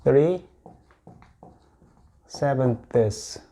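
"three" and "sevenths." said apart with a long pause; "three sevenths." spoken clearly to repeat; model pronunciation. Shown as a demonstration. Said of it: "three sevenths 이렇게 읽을 수".

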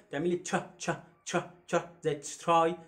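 teacher demonstrating the tr sound. Shown as a demonstration. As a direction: show the ch in tri. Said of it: "التي اتش بتعملها".

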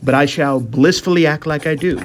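hammy vintage palooka pleading his case; dopey lug voice. Acted. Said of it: "as a dopey lug".

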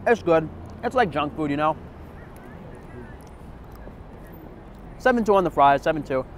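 speaking between bites; chewing while talking. Real, not acted. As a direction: mouth full of fries. Seen 0: Holds fries, cheeks bulge and jaw chews while speaking between bites.

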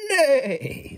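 high laughing neigh; whinny the word nay; a laughing horse's nay. Acted. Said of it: "said the horse".

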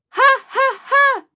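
gleeful cackle up high; high jolly laugh. A narrator's reading. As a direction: burst into a bright delighted laugh. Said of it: "laughed Santa".

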